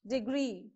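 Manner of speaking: deGREE, weight on the end of Degree; stress on gree. Shown as a demonstration. Teacher showing correct pronunciation of Degree, stress on gree. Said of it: "you have to put more stress".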